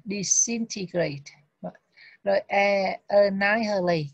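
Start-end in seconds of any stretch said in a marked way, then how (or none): 0.0-1.3 disintegrate slowed, stress on the second syllable "dis-IN-tegrate". Shown as a demonstration. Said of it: "mình nhận chữ thứ hai này". 3.1-4.1 annihilate said slowly and clearly, stress on "NI"; teacher modelling annihilate, stress on NI; careful pronunciation. Shown as a demonstration. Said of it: "cái chữ này mình đọc á là".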